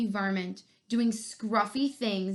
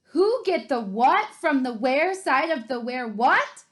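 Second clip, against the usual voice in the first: mocking repeat; 4 semitones higher, 7 dB louder than usual. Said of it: "The scruffy varmint repeated".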